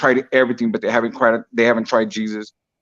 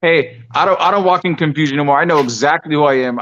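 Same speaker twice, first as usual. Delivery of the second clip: fervent declaration; 4 semitones higher, 3 dB louder than usual. Real, not acted. Guest declares new identity.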